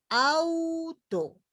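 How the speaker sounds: "auto" más agudo y alargado, con la U resaltada; ejemplo marcado. Shown as a demonstration. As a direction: canta "auto" alto, marcando la U. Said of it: "quiere pisar a la vocal fuerte es la U". ("auto" agudo y lento, la U fuerte)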